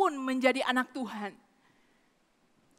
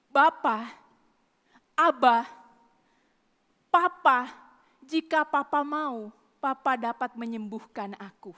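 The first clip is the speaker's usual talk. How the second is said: intimate plea; 4 semitones lower than usual. Retold or imitated. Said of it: "seolah-olah sedang berkata".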